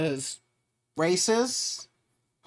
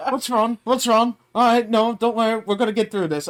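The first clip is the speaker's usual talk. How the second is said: higher, lightly voiced comforting of a child; reassuring chef; 5 semitones higher, 5 dB louder than usual. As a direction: play a chef soothing an upset kid. Voicing Ramsay comforting a crying child.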